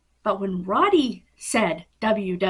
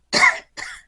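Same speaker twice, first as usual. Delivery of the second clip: high sharp hiccup; a sudden squeaky hiccup; 5 dB louder than usual. Real, not acted. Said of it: "hard to talk with the hiccups".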